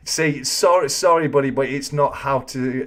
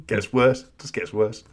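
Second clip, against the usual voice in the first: ordinary delivery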